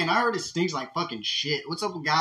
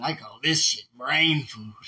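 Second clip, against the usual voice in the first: imitating interviewee; 4 semitones lower, slower than usual. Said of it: "He said".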